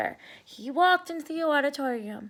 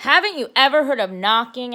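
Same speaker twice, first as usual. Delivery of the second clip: annoyed; 6 dB louder, faster than usual. Acted. Arthur annoyed at intruding sister.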